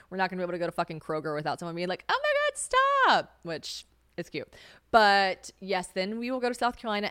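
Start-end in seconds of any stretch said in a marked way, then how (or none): 2.1-3.4 very high, squealed gushing; fawning fangirl. Retold or imitated. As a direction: squeal like a starstruck stranger, mockingly. Imitates fawning strangers in a store.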